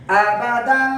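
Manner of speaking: ابداً recited in one run, last nasal held; fluent rawan reading. Shown as a demonstration. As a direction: read ابداً straight through without spelling it. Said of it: "اب میں اس کو رواں پڑھنا چاہتا ہوں۔".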